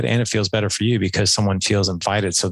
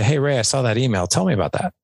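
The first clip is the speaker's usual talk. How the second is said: inviting; 3 semitones higher than usual. Shown as a demonstration. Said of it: "if it's different".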